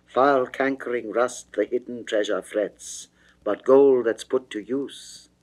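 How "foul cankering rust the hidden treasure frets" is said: ordinary delivery, nothing marked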